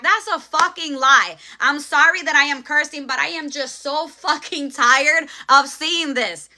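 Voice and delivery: heated, fed-up rant; passionate anger. Real, not acted. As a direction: let the frustration out. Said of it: "I only curse when I am so passionate".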